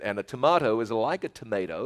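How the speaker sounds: "tomato" first as tuh-MAH-toh, then as tuh-MAY-toh; two pronunciations. Shown as a demonstration. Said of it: "I have a southern accent".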